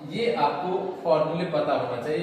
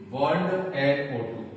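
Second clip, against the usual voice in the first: बॉन्ड एनओ टू said again more slowly and evenly; slow repeat; slower than usual. Shown as a demonstration. Teacher repeating the nitro group for students, slower.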